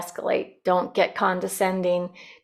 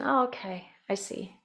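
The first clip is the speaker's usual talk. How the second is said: attentive reply; 7 dB quieter than usual. Shown as a demonstration. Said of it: "give attention".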